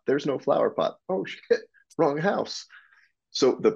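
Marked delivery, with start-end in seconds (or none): 0.1-0.9 higher, blunt crew member; mock painter squabble. Crew member realizing the mistake, higher and blunt. Crew arguing, no flower pot. 1.1-2.6 much higher, sudden "oh no" realization; mock dismayed realization. Painter realizing they painted the wrong house, pitched high.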